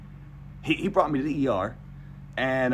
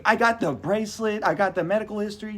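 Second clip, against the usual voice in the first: high, louder exasperated insistence; exasperated argument; 9 semitones higher, 4 dB louder than usual. Retold or imitated. Patient insisting to new doctor, exasperated. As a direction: act out pleading your case to a doctor.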